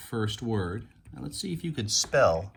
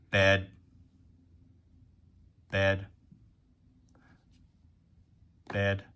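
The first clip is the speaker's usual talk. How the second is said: level-toned single robot beat on "Bed"; talking like a robot; 4 dB louder, slower than usual. Shown as a demonstration. Teacher tapping out beats for pupils, robot-like. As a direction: say "Bed" as one even, monotone beat. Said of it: "We can tap and talk like a robot".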